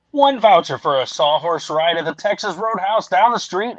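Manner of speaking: hyped TV pitchman read; announcer voice. Pretend. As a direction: sell it like a big infomercial. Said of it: "let me get my announcer voice ready here".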